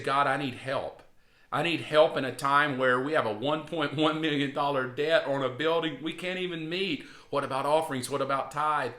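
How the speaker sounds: anxious pleading prayer, rising with worry; fretful plea for help; worried old me. Retold or imitated. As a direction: pray like a man scared of his debt. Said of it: "That was the old me".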